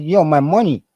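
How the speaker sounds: high, loud protest over his money; outraged yell. Retold or imitated. Cop takes his money.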